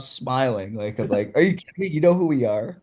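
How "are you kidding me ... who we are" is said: high, thrilled disbelief at being recognised; excited disbelief. Retold or imitated. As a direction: gush it like you can't believe he knows you. Meeting idol, disbelieving joy.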